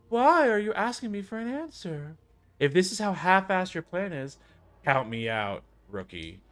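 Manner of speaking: high, scornful elder; gruff elder voice. Acted. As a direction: scoff at the half-baked plan.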